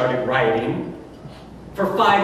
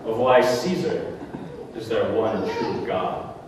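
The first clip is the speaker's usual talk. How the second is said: quiet menace; 6 semitones lower, 4 dB quieter, slower than usual. Acted. Turning priest's phrase back, menacing.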